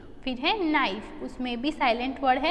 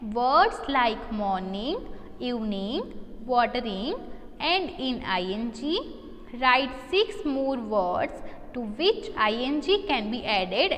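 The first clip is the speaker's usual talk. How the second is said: slow reading aloud; much slower than usual. Shown as a demonstration. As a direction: read the question out very slowly and clearly. Teacher reads question aloud.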